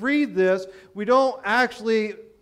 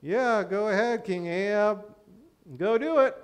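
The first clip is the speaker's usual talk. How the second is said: mocking. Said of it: "Because of his tone of voice".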